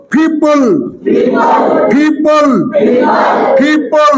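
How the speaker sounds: পিপল as ফিপল, breathy first P and plain second; পিপল with an aspirated initial P. Shown as a demonstration. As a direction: puff air on the first P of পিপল only. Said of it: "বলো".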